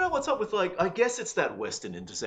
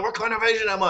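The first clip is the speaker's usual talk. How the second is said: retold panicked question; 12 semitones higher, 5 dB louder than usual. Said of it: "I mean, like".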